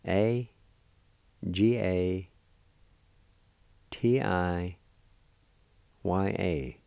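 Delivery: letters in measured groups, well spaced; letter-by-letter spelling. Shown as a demonstration. Teacher spelling a word for learners, letter by letter. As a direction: spell it out slowly with long pauses. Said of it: "It's spelled like this".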